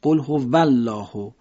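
slow recitation with هو said with a Persian v; Persian waw. Shown as a demonstration. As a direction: say هو as "hova", teeth on lip. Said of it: "واو رو مثلاً فارسی بگید".

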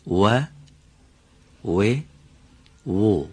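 و as a light W with rounded lips; thin, light waw. Shown as a demonstration. Teacher modelling waw for Mr. Valian, thin and light. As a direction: keep each و thin and light, never heavy. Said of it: "حرف واو باید نازک و رقیق تلفظ بشه".

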